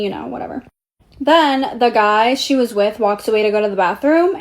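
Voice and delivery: ordinary talk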